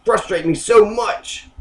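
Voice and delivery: mild, held-back exasperation; acted frustration. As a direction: vent it without real threat. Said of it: "could just been a rhetorical thing".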